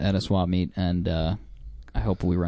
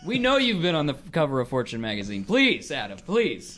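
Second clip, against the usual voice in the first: much higher teasing falsetto, laughing; mocking high voice; 13 semitones higher than usual. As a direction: taunt him in a squeaky mock voice. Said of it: "play that game that I wanted to play".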